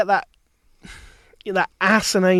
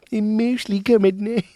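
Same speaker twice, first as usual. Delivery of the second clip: 1 Cartman impression; 3 semitones higher than usual. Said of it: "it's Cartman".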